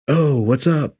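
high, awkward mock greeting. Master chief spots him in admin, awkward high greeting. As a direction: imitate a chief caught off guard, pitched well up. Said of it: "it was so awkward".

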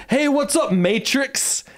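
mimicking the bike rapper. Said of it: "he goes".

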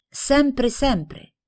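high-pitched, mildly amazed repetition; incredulous echo. A narrator's reading. Girl questions her friend's wish to live in the country, incredulous. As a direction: repeat it high, as if doubting. Friend doubts, then echoed back.

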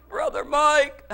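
imitated dying man. Sick man calling his pastor, imitated weak greeting. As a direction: lightly voice an ailing caller.

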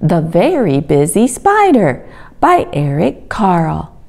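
measured, expressive storybook reading; children's story narration. A narrator's reading. Reading a spider story to children at home, storybook narration. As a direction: read it to little children, phrase by phrase. Reads a picture book aloud.

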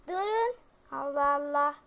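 a loud exasperated outburst; exasperated shout. Acted. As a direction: snap back at the nagging kids. Mother exasperated by nagging.

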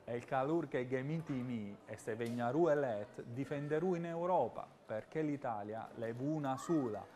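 Sicilian speaking in Milanese dialect; lightly put-on Milanese accent. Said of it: "nel vostro dialetto".

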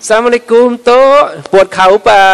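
sweet-talking grandchild. Acted. Grandchild asking after grandmother's sore knees, sweet-talking. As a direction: play the grandchild who charms a grandparent. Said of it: "บางทีคนนั้นพูดเก่งไง".

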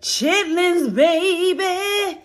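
high, loud and hyped naming the dish; excited food call. Real, not acted. Hyped vlogger presenting her plate to viewers, high and loud. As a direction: sing out the menu like a proud cook.

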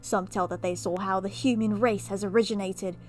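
hammy British storyteller with theatrical swells; overdone bad British accent; mock British accent. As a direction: read and comment as a pompous fake Brit. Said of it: "I'm just gonna do it anyway".

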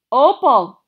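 sudden loud cry of her name; startled shout. A narrator's reading. Flattened preacher shouts the girl's name, loud and sudden. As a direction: blurt it out as you hit the floor.

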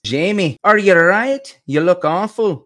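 high, loud Scottish cry of concern; Scottish accent. Acted. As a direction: call out high in a put-on Scots accent. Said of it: "she has the Scottish accent".

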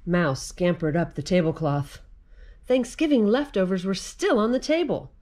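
put-on lively read-aloud for children; story narration. A narrator's reading. Reading the mouse picture book to children, lively read-aloud. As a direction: tell the mouse tale to little listeners.

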